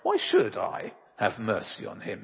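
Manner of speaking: a hint of a dismissive emperor; the emperor throws her plea back at her; lightly voiced Napoleon. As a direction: Napoleon lightly questioning the mother's plea for mercy. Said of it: "Napoleon replied".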